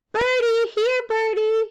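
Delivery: put-on high, eager child voice; little boy calling. A narrator's reading. Little brother after pigeons, calling high and loud. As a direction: call out to the birds in a small child's voice. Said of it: "he called".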